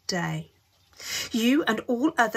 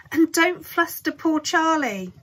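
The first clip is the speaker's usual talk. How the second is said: motherly scold; 7 semitones higher, 5 dB louder than usual. A narrator's reading. Mrs Bucket scolding gently.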